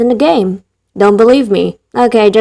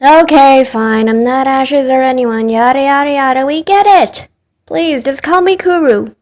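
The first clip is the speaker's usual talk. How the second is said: mock exasperated. Host owns up to not being Ashes, mock exasperated. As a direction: give in with playful impatience.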